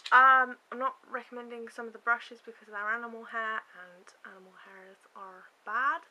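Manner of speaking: lightly done Wiltshire burr; a hint of Wiltshire accent. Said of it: "That was a really bad Wiltshire accent".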